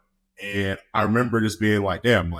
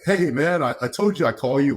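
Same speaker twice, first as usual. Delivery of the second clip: mock cheerful doctor, higher and bright; all happy; 4 semitones higher than usual. Team doctor calling the player, mock-happy. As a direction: sell the good news with a grin. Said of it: "like, all happy".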